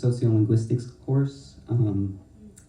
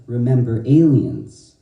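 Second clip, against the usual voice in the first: mock quoted voice; 8 dB louder, slower than usual. Quoted voice inside the poem.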